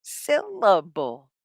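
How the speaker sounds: "Syllable" drawn out slowly in three parts; slow, separated beats on "Syllable". Shown as a demonstration. Teacher models the word for learners to repeat, slow syllable by syllable. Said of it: "Can you say it?".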